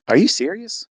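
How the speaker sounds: can't believe your eyes; stunned disbelief. Retold or imitated. Seeing the positive pregnancy test.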